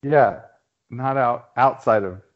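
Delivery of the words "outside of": "outside" leaned on, falling; stress on outside. Shown as a demonstration. Correcting a friend, hitting "outside" hard. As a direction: punch "outside" to correct him. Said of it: "the key word there is outside of Austin".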